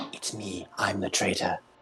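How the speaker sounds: fake, breathy, hammed-up theatrical stage whisper. Retelling what a guy said about being the traitor, in a fake stage whisper. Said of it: "is like doing like the fake stage whisper".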